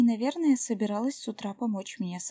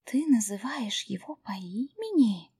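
awed breathy. Acted. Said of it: "благоговейно выдохнула Джулайя".

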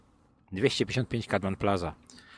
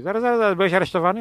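imitating a startled official, high and loud; mock surprised official; 9 semitones higher, 8 dB louder, much faster than usual. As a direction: act out the clerk catching it. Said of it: "Tam się mówi". (naśladowane zdziwienie urzędnika)

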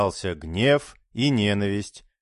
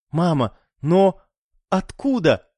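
startled, higher, rising on но; surprised; 7 semitones higher than usual. A narrator's reading. Daughter startled to see her mother arrive, surprised. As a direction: caught off guard seeing her mother.

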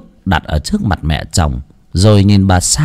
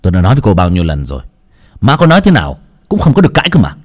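scolding; 4 semitones lower, much faster than usual. Acted. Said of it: "đoạn quát".

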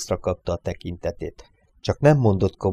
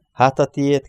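higher, teasing question with a smile; broad smile; 6 semitones higher, 3 dB louder than usual. A narrator's reading. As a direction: toss it back with a grin. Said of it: "kérdezte szélesen mosolyogva". (széles mosollyal visszakérdezve)

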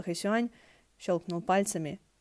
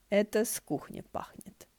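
wooden voice; 3 semitones higher than usual. Acted. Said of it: "сказал Хэсюань деревянным голосом".

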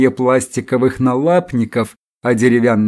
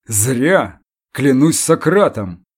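friendly giant's bass; slower than usual. Acted. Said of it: "добродушно пробасил гигант".

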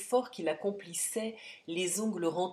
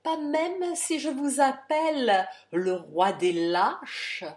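much louder, higher, slow, shouted insult; furious taunt; 6 semitones higher, 8 dB louder, slower than usual. Acted. The count calls Jean the king of cowards, furious shout. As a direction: hurl "lâches" at him.

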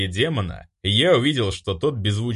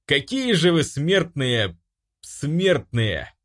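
struggling for words; 6 semitones higher, slower than usual. A narrator's reading. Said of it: "С трудом подбирая слова".

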